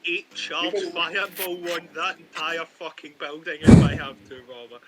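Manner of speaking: angry threat. Acted. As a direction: threaten to blow it all up. Player threatens angrily.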